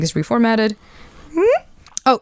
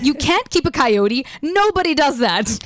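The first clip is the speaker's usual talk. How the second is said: slow and deliberate; slower than usual. Acted. Husband texts read slowly.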